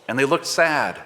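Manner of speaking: measured, unhurried Bible reading voice; scripture reading. Acted. Reader reading Luke to the congregation, measured and unhurried.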